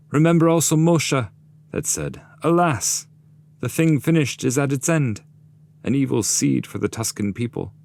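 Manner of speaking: high, loud lamenting shade; anguished cry. Acted. Handless shade cries out his own name, high anguished lament. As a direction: cry it out in grief.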